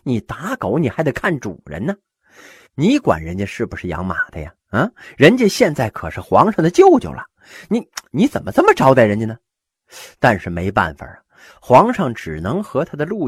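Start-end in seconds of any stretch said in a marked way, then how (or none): 0.0-9.4 mildly angry emperor. Acted. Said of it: "皇上也很生气".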